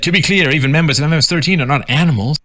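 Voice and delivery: quote of priest. Retold or imitated. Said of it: "Jesuit priest James Martin said".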